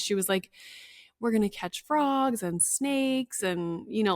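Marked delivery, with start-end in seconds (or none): 1.2-3.4 put-on higher, slower pitch to a child; making it exciting. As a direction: imitate a counselor gently drumming up excitement. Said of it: "just making it excited".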